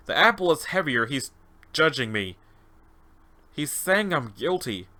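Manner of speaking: mildly unsettled, halting description; awed test subject. Acted. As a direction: describe a judging figure, lightly acted. Subject describes his judge.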